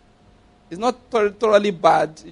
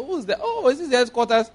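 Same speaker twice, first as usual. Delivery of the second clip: mock innocent visitor; 6 semitones higher than usual. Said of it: "I just say".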